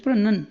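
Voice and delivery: प्रोनन with a short "nun" second syllable; "nun", not "noun". Shown as a demonstration. Teacher warning pupils off "noun", प्रोनन pronounced with "nun". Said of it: "नाउन नहीं कहेंगे".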